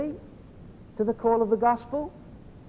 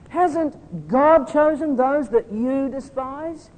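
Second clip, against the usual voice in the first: slow, louder, stress on God; emphatic rhetorical question; 4 semitones higher, 5 dB louder, slower than usual. Shown as a demonstration. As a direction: press the question home on God. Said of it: "they lay the emphasis".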